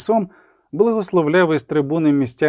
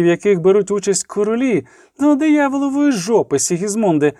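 raised, sharp scolding; angry reproach; 5 semitones higher than usual. Acted. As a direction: tear into him for being late. Philippa scolds Dijkstra. (розлючений докір, голос вище)

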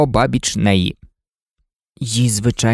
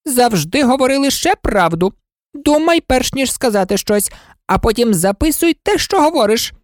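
lecturing queen; 10 semitones higher than usual. Acted. Red Queen lecturing Alice.

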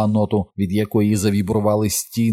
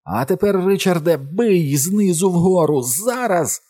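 urgent shout; 10 semitones higher, slower than usual. A narrator's reading. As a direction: yell the signal to strike. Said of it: "вона закричала".

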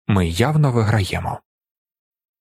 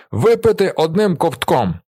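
shouted command; 7 semitones higher than usual. A narrator's reading. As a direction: bark it over the table. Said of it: "репетує Віллі".

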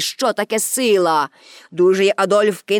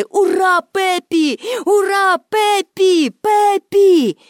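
crowd cheering; 8 semitones higher, much slower than usual. A narrator's reading. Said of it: "кричати".

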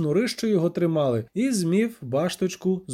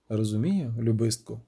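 sad smile; 6 semitones lower than usual. A narrator's reading. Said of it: "Ельф смутно усміхнувся".

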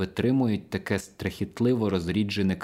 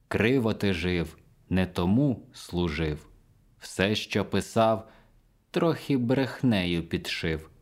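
mildly called-out rhyme. A narrator's reading. Mozart stamps his heels and taunts the narrator, mildly called-out rhyme. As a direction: recite mocking verse, drawing out each short phrase. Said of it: "Притупуючи, він крикнув мені".

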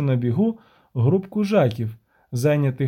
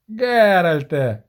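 slow loud call of a name; shout; 2 semitones higher, 4 dB louder, much slower than usual. Acted. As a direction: call across the crowded market. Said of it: "крикнув Денті Бібервельд".

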